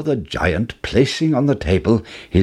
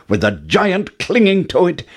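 usual speaking voice

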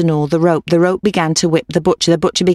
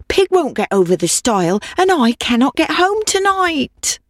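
put-on old woman voice; 7 semitones higher than usual. Old woman pleading with cat.

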